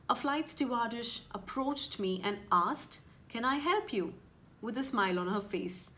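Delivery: expressive reading aloud. Shown as a demonstration. Demoing an exam reading for cabin crew applicants, expressive and careful. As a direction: read it like a polished test passage, with clear intonation. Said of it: "So do you see how I was reading it? I was making use of a lot of intonations".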